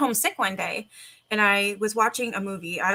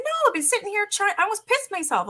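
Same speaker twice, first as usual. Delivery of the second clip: high, fast, frantic whine; panicked; 12 semitones higher than usual. Retold or imitated. Scared girl begs her cousin, high frantic panic. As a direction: rush it out, high and desperate.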